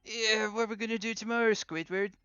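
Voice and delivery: high nasal cartoon imitation; Squidward-style voice. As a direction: mimic a cartoon sidekick's whine. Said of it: "I suddenly turned into Squidward".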